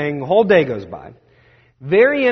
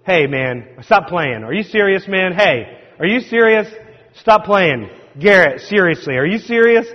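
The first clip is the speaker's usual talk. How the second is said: incredulous protest; 3 semitones higher, 5 dB louder than usual. Retold or imitated. Disbelieving protest to friend.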